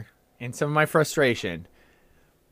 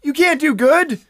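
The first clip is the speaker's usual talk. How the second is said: high, loud, mock outburst; mock Pete Carroll; 11 semitones higher, 4 dB louder than usual. Mocking the coach to a co-host with a loud outburst. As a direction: bark the ban like a stubborn coach. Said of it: "It seems like he's like".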